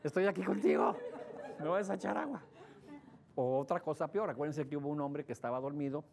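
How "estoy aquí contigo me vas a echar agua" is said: mock fawning husband. Husbands fawning to avoid water.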